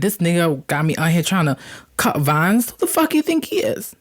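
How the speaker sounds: annoyed grumble. Retold or imitated. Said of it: "upset, because I'm like".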